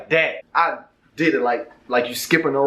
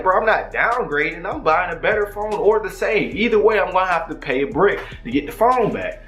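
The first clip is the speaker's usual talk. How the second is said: higher, heated complaint; getting more pissed off; worked-up rant; 5 semitones higher than usual. Retold or imitated. Retold angry thinking.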